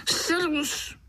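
high ringing hello called out; halloo call. A narrator's reading. Stranger hailing a little boy, high called greeting. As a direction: call out a greeting across the water. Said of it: "zahalekal znovu ten cizinec".

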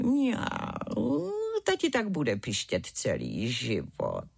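low, slow feline drawl with a meow; meowing mother cat. A narrator's reading. Mother cat blames worst mouse in cellar, meowing to son. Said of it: "černá maminka mňoukla".

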